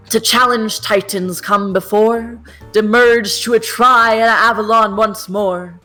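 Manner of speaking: grand, measured poetry reading; poem recital. Acted. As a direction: declaim it like an ode to a river.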